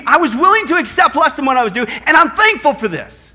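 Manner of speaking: thankful acceptance. Retold or imitated. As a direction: declare it firmly, stretching out the thanks. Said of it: "here's Paul's attitude".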